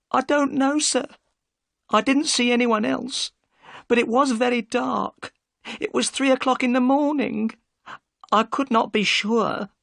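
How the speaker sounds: high and unsure, recalling the dark; Mrs Smith, anxious. Acted. Mrs Smith recounts night.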